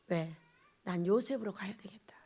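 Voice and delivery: hushed inner vow, breathy whisper; a secret decision, barely voiced; whispered resolve. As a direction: whisper it to yourself like a private promise. Resolves inwardly, spoken to self.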